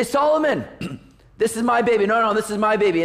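put-on two women each insisting the baby is theirs; quarreling mothers.

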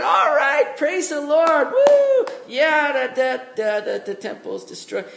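high, loud hammed-up whooping praise; sarcastic mock celebration, pitched high and loud; mock cheering. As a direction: play a giddy worshipper cheering at the ruins, way up high. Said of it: "How many of you would be going".

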